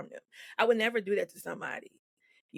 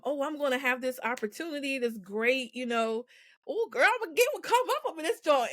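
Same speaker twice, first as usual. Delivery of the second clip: high, fast, giddy gushing; giddy excitement; 6 semitones higher than usual. Retold or imitated. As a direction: gush like you just landed the dream deal. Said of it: "So I went from".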